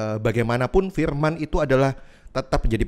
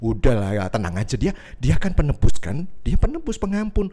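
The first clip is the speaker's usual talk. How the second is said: soothing tempter; 3 semitones higher than usual. Retold or imitated. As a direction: lull them into thinking sin costs nothing. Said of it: "ini salah satu modus operandinya".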